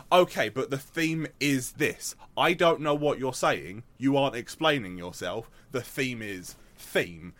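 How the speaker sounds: exasperated, insistent re-enactment of an outburst; worked up, pressing the point, mildly heated; retold anger. Student blowing up at the tutor over a theme, retold anger. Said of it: "that was me getting angry at a thing".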